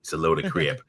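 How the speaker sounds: put-on Australian accent; Aussie accent. American host echoes his Australian co-host, playful Aussie accent. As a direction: agree in an imitation Aussie twang. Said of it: "You do a pretty good Aussie accent".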